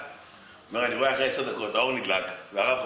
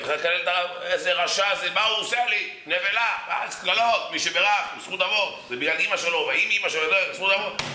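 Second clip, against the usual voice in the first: higher, heated complaining about husband; mock rant; 6 semitones higher than usual. Wife ranting to the rabbi about her husband, higher and heated. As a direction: let the grievance pour out.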